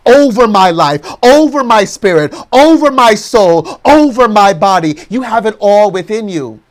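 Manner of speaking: usual speaking voice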